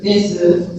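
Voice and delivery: "desu" with the final U audible, "de-su"; strong su sound. Shown as a demonstration. Teacher showing some people's version, "desu" with U sounded. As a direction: keep the "su" syllable in "desu". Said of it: "strongly pronounce su sound".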